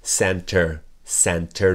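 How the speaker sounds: "Center" à l'américaine, sans le t; American center. Shown as a demonstration. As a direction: drop the t in "Center", American style. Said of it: "c'est comme center".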